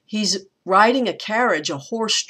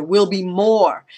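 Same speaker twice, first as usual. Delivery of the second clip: "will be" quick and unstressed, MORE stressed; da-da-DUM on "will be more"; anapest rhythm; 4 dB louder than usual. Shown as a demonstration. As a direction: rush through "will be" to land on MORE. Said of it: "It goes faster".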